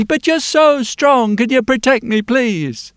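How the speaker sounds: put-on high, slow child's plea; a child begging, drawn out; pleading little girl. Girl begging the strong blacksmith, high and slow.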